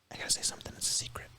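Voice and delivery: very soft, voiceless confiding; secretive whisper. Acted. Luring Steve closer to bite his ear, whispered. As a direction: draw the listener close with a whisper. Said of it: "whispering in your ear".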